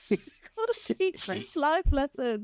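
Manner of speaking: laughing through the words, high and drawn out; slow, high-pitched, giggly delivery. Real, not acted. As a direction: echo the joke through laughter. Laughing repeat of friend's joke.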